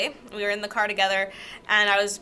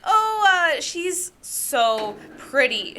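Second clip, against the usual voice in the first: high start, slow dreamy fall; mock swooning; 6 semitones higher, slower than usual. Teen seeing crush in school hallway, swooning. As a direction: swoon slowly over a crush. Acts out smitten teenage crush.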